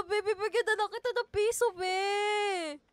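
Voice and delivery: fast, loud, frantic begging; panicked pleading. Real, not acted. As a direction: rush the words out in a scared plea. Panicked pleading after the scare. (natatarantang pakiusap)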